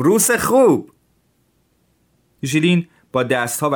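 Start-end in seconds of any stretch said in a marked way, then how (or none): 0.0-0.9 much higher, louder, jolly foreign voice; cheerful Tatar. Acted. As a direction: repeat it grinning, high and bright.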